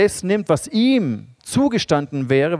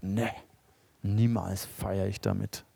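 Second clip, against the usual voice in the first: sulky refusal; 6 semitones lower, 8 dB quieter, slower than usual. Retold or imitated. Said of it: "er ist stinksauer".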